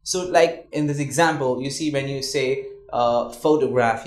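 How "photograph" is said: photograph, first syllable pho punched; photograph said PHO-to-graph; stress on PHO. Shown as a demonstration. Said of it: "you stress on pho".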